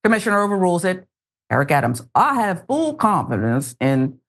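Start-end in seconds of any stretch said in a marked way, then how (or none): 2.2-4.2 put-on failed New York accent. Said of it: "I can't do the New York accent".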